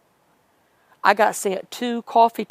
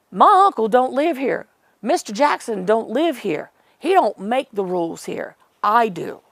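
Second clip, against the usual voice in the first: imitating a bossy put-down, higher and louder at the start; mock-stern, laying down the rules; retold rude rebuke; 4 semitones higher, 3 dB louder than usual. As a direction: act out a rude man pulling rank, easing off toward the end. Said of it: "he was so rude".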